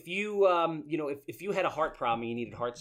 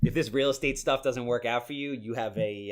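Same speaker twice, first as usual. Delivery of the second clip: deep soul-singer voice; 2 semitones lower than usual. Retold or imitated. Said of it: "singer-esque kind of voices".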